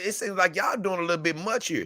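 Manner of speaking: imitating an even, calm protest. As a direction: keep it level and unbothered, like defusing things. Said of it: "He was speaking calmly".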